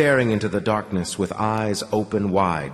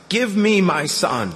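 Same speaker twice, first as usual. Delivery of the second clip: higher, slow desperate shout; screaming demand; 9 semitones higher, slower than usual. A narrator's reading. Anton demanding his son back, screaming. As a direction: scream it at the captors. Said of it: "He began to scream".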